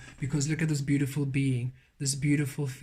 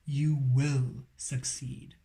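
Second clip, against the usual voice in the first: gentle spirit voice; much slower than usual. Retold or imitated. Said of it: "And Spirit saying".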